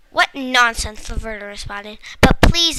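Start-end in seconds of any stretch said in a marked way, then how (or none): 0.1-1.1 dismissive. Acted. Strict stepmother dismissing. 2.2-2.8 high, loud pleading cry; a girl begging her stern caretaker loudly. Acted. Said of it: "Amanda said pleadingly".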